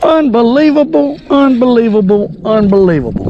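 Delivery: excited. Real, not acted. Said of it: "Three unbelievables".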